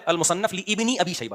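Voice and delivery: slow, لابن split as "li-ibni"; quoted misreading. Retold or imitated. Speaker repeating what the clip said, slow misreading. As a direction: read لابن slowly with a doubled i. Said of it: "engineer صاحب بتا رہے ہیں".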